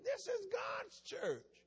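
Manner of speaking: slow, high cry of "God's church"; indignant cry. Real, not acted. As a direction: cry it out slowly, up high, as an outrage. Preacher exclaims indignantly.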